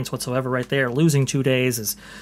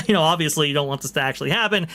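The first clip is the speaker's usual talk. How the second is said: fast, laughing through words; giggling while talking; 2 semitones higher, much faster than usual. Real, not acted.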